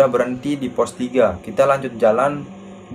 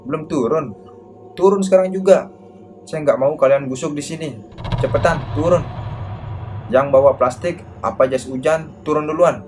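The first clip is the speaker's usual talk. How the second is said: acted angry scolding, raised voice peaking on the order; marah; 2 semitones higher than usual. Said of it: "Nadanya begitu marah pada kita". (memarahi dengan nada tinggi dan mendesak)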